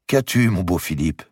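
lightly voiced young queen, tender; Marguerite's voice. Queen asking her lover, lightly voiced and coaxing.

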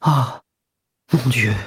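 sighed out on the breath. A narrator's reading. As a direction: let it go as a sigh. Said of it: "il soupira".

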